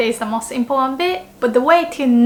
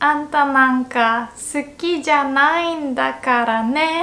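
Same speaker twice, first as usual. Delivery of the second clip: put-on high huffy tsundere girl; 3 semitones higher than usual. Shown as a demonstration. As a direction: pout it like an anime girl. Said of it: "sound more tsundere-like".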